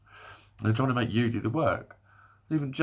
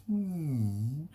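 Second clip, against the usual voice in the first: knowing "hmm"; 6 semitones higher than usual. Retold or imitated. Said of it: "sort of going".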